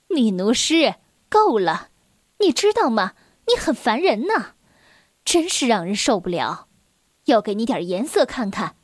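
mild mock scolding of a naughty girl; a mother's understated telling-off; angry scolding. Mother mildly scolding her messy daughter, half-hearted anger. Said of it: "对她大喊".

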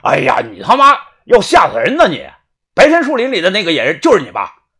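angry, loud scolding; furious yelling. Acted. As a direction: chew him out for the scare. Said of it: "彪哥顿时大怒啊".

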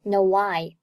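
"no I" with a w sound between the words; linking w glide. Shown as a demonstration. Teacher shows 中间加了个what的音, "no I" with w glide. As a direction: say "no I" like "no-wai". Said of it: "中间加了个what的音".

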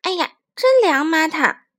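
high, loud yelp at the cold; surprised child. Acted. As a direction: shriek at icy snow. Child touching cold snow.

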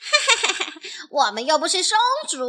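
loud, high mocking laugh, then quick words; roaring laughter. A narrator's reading. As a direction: burst out laughing, then jeer fast. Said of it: "黄鼠狼们轰然大笑".

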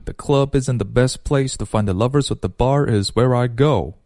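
brisk, run-together reading in one breath; 提起语速. Shown as a demonstration. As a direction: speed the line up, small words squeezed short. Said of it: "再把语速提起来". (加快语速，一口气连着读)

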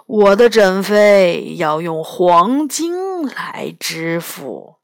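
put-on slow, sneering old man; cold sneer. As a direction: lay out the price with scorn. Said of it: "马师皇冷笑一声". (冷笑着慢慢说)

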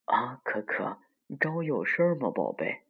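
soft, kindly granny teacher; affectionate old teacher's question. Acted. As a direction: ask gently, dropping softly on the endearment. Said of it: "她亲切地问".

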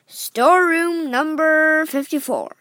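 breathy unvoiced reading of the sign; whispered sign. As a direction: whisper the label like a secret.

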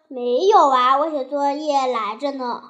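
mildly guilty denial, loud at the start. Acted. Child lying to mother about computer, mildly guilty. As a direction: push out the denial, then settle. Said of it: "唐小乐心虚地说".

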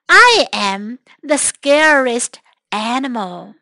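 a lightly voiced boastful tiger, chest out. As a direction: show off each claim, mildly proud. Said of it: "Tiger bragged".

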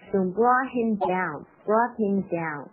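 slow model with BROUGHT flowing into HIM; linked BROUGHT HIM. Shown as a demonstration. Teacher repeating the linked phrase, BROUGHT HIM slowly joined. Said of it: "也是做一个连读的".

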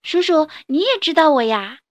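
put-on high, bright little kid voice; little child voice. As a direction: innocent baby dinosaur asking. Baby asks innocently.

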